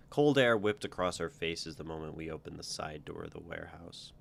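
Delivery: steady read-aloud narration with voiced lines; storyteller voice for a first-person tale; story reading. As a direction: read your story out to the group. Author reads own story aloud.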